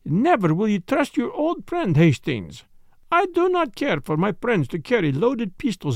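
put-on gently scolding, lightly accented detective; mild reproof. Detective scolding his friend over the pistol, mild reproof. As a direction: chide an old friend mildly. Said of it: "voice rose in mild reproof".

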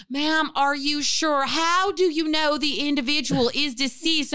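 lightly voiced Southern dispatcher; questioning Southern emergency operator, imitated. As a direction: put on a touch of a Southern accent. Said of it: "in my mind she was Southern".

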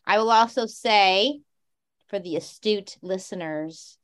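numb half face lisp; numb from the dentist. Real, not acted. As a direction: mouth numb after dentist. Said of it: "I sound drunk".

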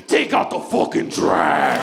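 slow, blunt married order; just bark the order, no sugar; blunt demand. Retold or imitated. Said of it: "When you're married".

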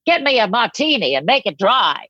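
lightly mimicked world-weary child ordering a drink; fifth grader sounding old-timey. Fifth grader among heavy Boston accents demanding a drink, lightly imitated old-timey voice. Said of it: "this little fifth grader in the middle being like".

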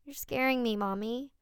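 put-on a frightened four-year-old; scared child.

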